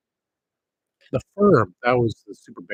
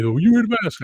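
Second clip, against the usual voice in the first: high, louder mocking squeal of their remark; mocking quote; 11 semitones higher, 7 dB louder than usual. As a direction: mimic them in a high, loud mocking voice. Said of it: "When they say".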